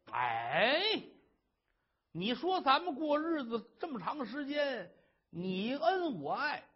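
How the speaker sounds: pleading husband. Acted. Husband guessing why his wife wants to die, coaxing. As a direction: wheedle the truth out of her.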